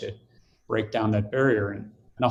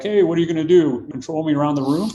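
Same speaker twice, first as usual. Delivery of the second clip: loud, higher teasing jab; mock taunt; 5 semitones higher, 3 dB louder than usual. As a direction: throw the line back as a mocking joke. Chris mocking him back.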